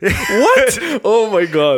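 high, loud disbelieving outburst; real shocked yelp; laughing shock. Real, not acted. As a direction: burst out scandalised, half laughing. Shocked at co-host's remark, laughing.

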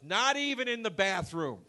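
high, emphatic mock-elderly complaint; old man impression. Old man ranting in the elevator about cups, high indignant mimicry. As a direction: exclaim it as an outraged old man. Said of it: "and he goes".

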